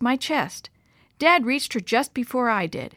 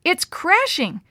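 frightened; 8 semitones higher, slower than usual. A narrator's reading. Mom in shock pointing.

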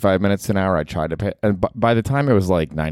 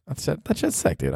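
excited; 8 semitones higher, 6 dB quieter than usual. Real, not acted. Excited about idea.

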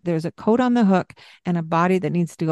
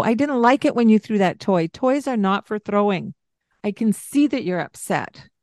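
right way; 2 semitones higher than usual. Shown as a demonstration. Mother to child, firm steady voice. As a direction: state it calmly with authority.

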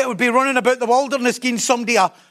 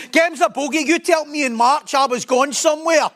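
higher-pitched mock protest; indignant mock complaint; 5 semitones higher than usual. Let-down believer confronts the one who promised a year, indignant.

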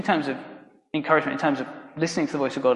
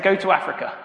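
quick, slightly raised excited report; eagerly reported message; 5 semitones higher than usual. Acted. Young Jacob reporting what God told him, eager and matter-of-fact. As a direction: pass the message on eagerly, without booming. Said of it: "my friend Jacob comes in and he goes".

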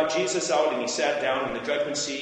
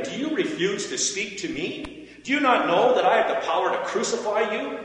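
higher, insistent challenge; raised, incredulous questions from one in power; indignant questioning; 7 semitones higher than usual. A narrator's reading. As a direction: press a silent prisoner for an answer. Pilate demands answers from silent prisoner.

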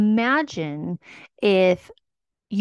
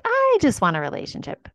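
whiny mock partner; 8 semitones higher than usual. Vague partner voiced.

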